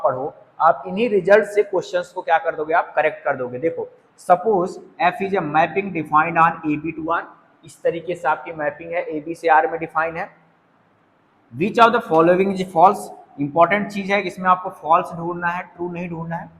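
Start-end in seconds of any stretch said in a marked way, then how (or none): 4.2-7.2 very slow, measured reading of the question. Shown as a demonstration. Teacher reading an exam question aloud to students, slowly. 11.5-13.1 very slow, measured reading of the question. Shown as a demonstration. Teacher reading an exam question aloud to students, slowly.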